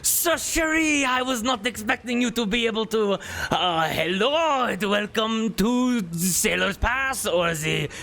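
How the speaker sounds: a nobleman babbling in sheer panic; panicked duke. Acted. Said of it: "most stressful situation of his life".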